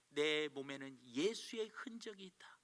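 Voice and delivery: slow, hushed, whispered words; whispered confession. Real, not acted. The preacher whispers Paul's confession to the church, slowly. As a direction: breathe it out like a secret.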